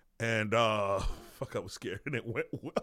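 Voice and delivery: speaking while laughing. A speaker recalling a proud show in Toronto, laughing while talking. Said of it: "Sorry, I'm laughing".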